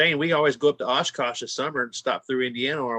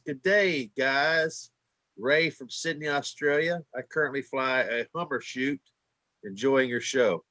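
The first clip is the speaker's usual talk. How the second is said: put-on Australian accent; 2 semitones lower, 3 dB quieter, slower than usual. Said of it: "my Australian accent was pretty far off".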